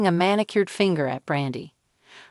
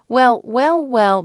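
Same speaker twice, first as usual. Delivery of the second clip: loud, sing-song fake sweetness; mock sweetness; 5 semitones higher, 6 dB louder, slower than usual. A narrator's reading. Brandi greets her rival at the party with mock sweetness. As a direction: drip false sugar onto the greeting. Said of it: "her voice dripping with mock sweetness".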